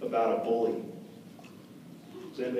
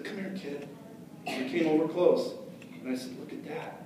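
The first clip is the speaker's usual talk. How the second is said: hushed, much softer sly lure; secretive hush; 6 dB quieter than usual. Retold or imitated. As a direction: draw him in with a hush. Bully luring kid secretly.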